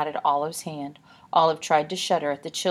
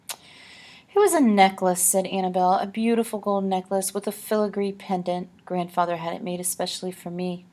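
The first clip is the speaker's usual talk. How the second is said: wistful lady voice; 3 semitones higher, 3 dB louder than usual. Acted. Annabelle mourns necklace.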